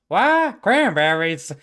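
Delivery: loud, high-pitched wail of excitement; distant cry. Acted. Old god discovering cranberries in the distance, loud cry. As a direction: cry out as if from far down the hall. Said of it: "you hear in the distance".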